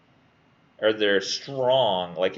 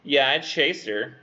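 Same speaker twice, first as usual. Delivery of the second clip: slow, slightly raised creep voice; creeper; 4 semitones higher, slower than usual. Acted. Student voicing the creeper admitting the chase, slow and creepy. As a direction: draw it out like a creeper owning up. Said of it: "it's just such a creeper".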